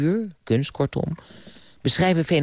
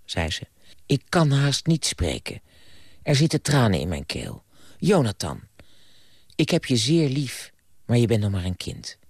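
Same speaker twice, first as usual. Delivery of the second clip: calm storybook reading voice; story narration; 3 semitones lower than usual. A narrator's reading. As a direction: tell the fairy tale gently to listeners. Reads story aloud to audience. (rustig voorgelezen verhaal)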